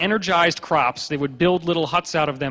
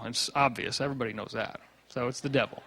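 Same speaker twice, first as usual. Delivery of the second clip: deadpan sarcasm; 5 semitones lower, 13 dB quieter than usual. Real, not acted. Sarcastic mock certainty.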